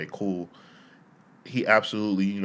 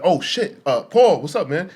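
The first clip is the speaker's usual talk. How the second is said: higher, louder, caught-off-guard greeting; nervous and flustered; 8 semitones higher, 9 dB louder than usual. Retold or imitated. Startled employee greeting the stern boss, flustered. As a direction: blurt it out flustered, like meeting your father. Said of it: "nervous and flustered".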